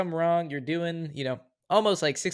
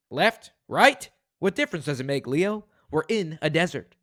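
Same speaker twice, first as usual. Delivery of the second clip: second take; 3 semitones higher than usual. Shown as a demonstration. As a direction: rein it in a little. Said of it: "Let me try that again".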